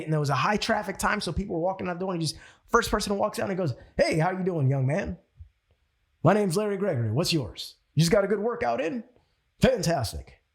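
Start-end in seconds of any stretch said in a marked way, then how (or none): 4.0-10.4 lightly voiced charismatic mentor, greeting strangers; a hint of a smooth, powerful salesman's voice; Larry Gregory. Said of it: "This is how he talks".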